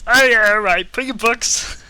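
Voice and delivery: high squeaky elf. Acted. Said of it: "He goes".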